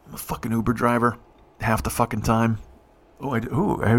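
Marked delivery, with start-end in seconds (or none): 3.2-4.0 muffled megaphone sound, hand over mouth. Real, not acted. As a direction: talk through a cupped hand like a megaphone. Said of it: "it sounds like I'm in a megaphone".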